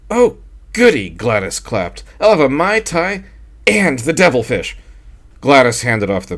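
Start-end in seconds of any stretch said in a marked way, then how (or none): 0.1-1.1 high, breathy-free gushing lady voice; wife cooing to her husband. A narrator's reading. Gladys voiced in story. 2.2-4.8 high, breathy-free gushing lady voice; wife cooing to her husband. A narrator's reading. Gladys voiced in story.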